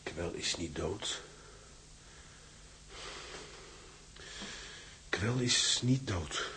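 slow, dazed repetition; stunned disbelief. Acted. Prisoner alone after hearing Kwel survived, stunned disbelief. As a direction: let it sink in word by word.

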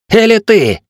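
high, loud jab; sharp accusing shout. A narrator's reading. Tiel singles out the cat, sharp accusing shout. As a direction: fling it at him.

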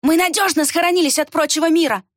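high, gloating boast; nasty smirk. A narrator's reading. Villager assuring the girl no law reaches here, smirking. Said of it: "нехорошо ухмыльнулся Варх".

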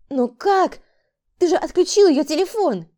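desperate disbelief; panicked woman. A narrator's reading. Frightened woman protests. (испуганный высокий голос)

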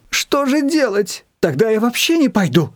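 a hint of tearful despair; near tears. A narrator's reading. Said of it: "чуть не плакала от отчаяния". (свекровь почти плачет от отчаяния, слегка)

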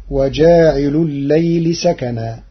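وجاعلُ الليلِ سكنا بجر لام الليل; اجرر الليل على الإضافة; الليل مجرورة. Shown as a demonstration. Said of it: "فجرت لامها على الإضافة". (قراءة وجاعل الليل)

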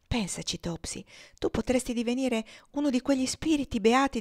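lightly voiced gentle sick girl, pleading; a hint of a tender young girl; Eva. Eva speaks of heaven.

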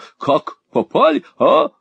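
high, leaping exclamation; surprised questioning. A narrator's reading. Husband bursting in on Kate, high surprise. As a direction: pop the final «а» up high.

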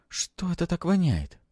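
put-on high-pitched disgusted girl. A narrator's reading. Girl catching a foul smell, disgusted. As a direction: wrinkle the nose, pitch it well up. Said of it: "повертела носом и сморщилась".

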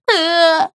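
high acted wail. A narrator's reading. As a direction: burst into a short bawling cry. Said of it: "заревела Брякля". (громко заревев)

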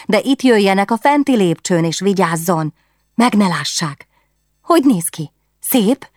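put-on curious young queen scheming; eager princess. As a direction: plot the sneaking-in with excitement. Princess gives secret instructions.

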